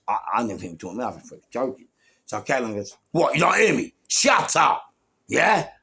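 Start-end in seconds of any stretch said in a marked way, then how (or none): 3.1-5.7 loud, high confrontational challenge; retold aggressor. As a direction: imitate a man squaring up for a fight.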